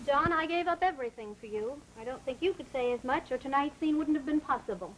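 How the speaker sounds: reproachful, wounded appeal; guilt trip. Acted. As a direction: make him feel guilty for it. Wife reproaching husband's sacrifice.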